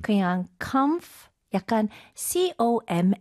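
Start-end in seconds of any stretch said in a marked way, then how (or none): 0.6-1.3 "comf" as one syllable, no O sound after it; simplified first syllable. Shown as a demonstration. Teacher models the first chunk for learners, simplified "comf". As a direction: run "comf" together as one closed beat. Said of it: "스펠링 정확하게 발음하는 것보다는".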